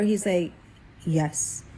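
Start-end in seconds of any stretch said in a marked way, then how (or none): 1.0-1.6 slightly lowered, monotone man's voice; deep dark voice. Retold or imitated. Answering from behind the bathroom door, mildly dark monotone. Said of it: "deep monotone dark voice".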